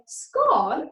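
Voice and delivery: "scone" with a short o, rhyming with gone; southern scone. Shown as a demonstration. Teacher showing how the south says scone, slowly. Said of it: "you're from the south of England".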